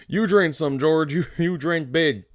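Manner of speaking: a hint of a childlike, delighted Lenny; lightly voiced simple giant. Lenny urges George to drink.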